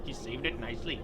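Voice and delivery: lightly put-on Indian accent; casual imitation Indian accent. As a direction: slip into a mock Indian accent. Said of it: "I'm talking like an Indian guy".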